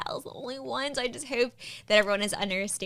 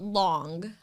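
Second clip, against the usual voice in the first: Florida-accented LONG, open vowel; 3 semitones lower than usual. Shown as a demonstration. Offering the next word, Florida accent. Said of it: "saying them in a Florida accent".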